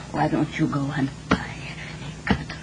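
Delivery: soft, low, scornful whisper; whispered taunt to her husband; bitter whisper. Acted. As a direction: hiss the jibe at him under her breath. Wife's bitter jibe at husband.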